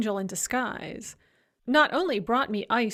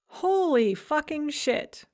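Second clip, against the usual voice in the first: slow shocked curse; 5 semitones higher, slower than usual. Acted. Shocked by the blog post.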